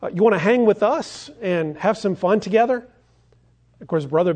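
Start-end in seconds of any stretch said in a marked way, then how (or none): 0.0-2.9 higher, mildly acted call to a kid; lightly voiced gang leader calling over; raised, inviting storybook call. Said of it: "Too Tall calls out to Brother Bear".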